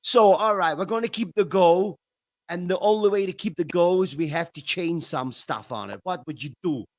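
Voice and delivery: a light Chicago accent put on to tease. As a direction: do your Chicago voice for a friend. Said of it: "you want me to do my Chicago?".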